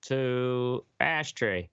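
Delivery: slow drawn-out segment intro; announcer read. Acted. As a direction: announce the next topic slowly.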